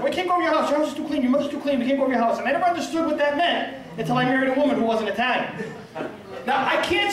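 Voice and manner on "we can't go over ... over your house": put-on kids complaining.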